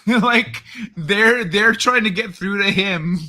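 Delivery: laughing through the word; giggling while talking. Real, not acted.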